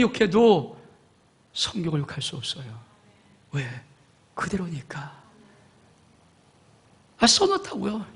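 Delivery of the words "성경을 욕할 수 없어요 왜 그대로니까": hushed whispered punchline; preacher whispering the answer. Acted. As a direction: drop it to a secret whisper.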